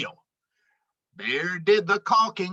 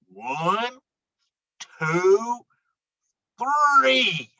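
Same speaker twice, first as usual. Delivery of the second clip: building countdown; much slower than usual. Acted. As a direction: count it off, getting bigger each number. Counting down the lift.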